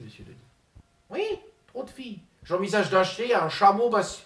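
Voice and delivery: pompous politician impersonation; Ségolène Royal impression. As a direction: play the self-important minister, lofty and indignant.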